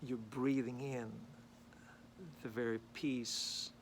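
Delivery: unhurried meditation guidance with long pauses; guided meditation. Real, not acted. Man leading viewers to breathe in peace, calm guided meditation. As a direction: guide them gently into breathing, phrase by phrase.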